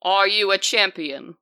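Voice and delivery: loud, formal challenge; commanding water spirit. Acted. Water spirit questions her chosen fighter, loud and commanding. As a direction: test the chosen one. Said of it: "she begins to speak in a voice".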